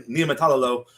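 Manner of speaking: tongue-twister speed, no pauses; said super fast. Shown as a demonstration. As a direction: rattle the name off at top speed. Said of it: "Now you gotta say it as fast as you can".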